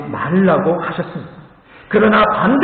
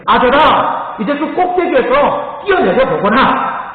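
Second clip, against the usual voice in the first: higher, louder call to jump; a father calling up to the treetop, higher and louder; 6 semitones higher, 3 dB louder than usual. Retold or imitated. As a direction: urge the boy down from the top. Father calls son to jump.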